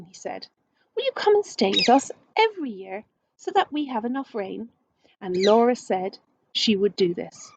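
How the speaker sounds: gentle read-aloud storytelling voice; story narration. A narrator's reading. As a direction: read it like a picture book to children.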